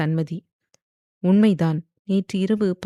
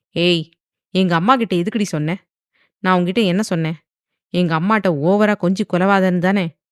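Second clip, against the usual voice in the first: louder, sneering scold with fast bursts; mocking scold; 4 dB louder than usual. Husband taunting his wife about telling his mother, loud and sneering. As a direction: taunt her while telling her off. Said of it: "என்று நக்கலாக கேட்டான்".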